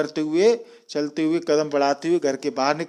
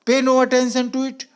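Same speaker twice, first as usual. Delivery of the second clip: much higher, louder, slow roar; 7 semitones higher, 4 dB louder, slower than usual. Retold or imitated. Uncle Khosrow roaring at the farmer about his leg. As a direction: bellow it out to dismiss the pain. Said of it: "my uncle Khosrow roared".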